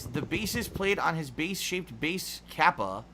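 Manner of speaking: reading the tipper's tongue twister slowly to chat; slow careful reading. Shown as a demonstration. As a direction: read slowly, testing each "bass". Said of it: "How would you pronounce this".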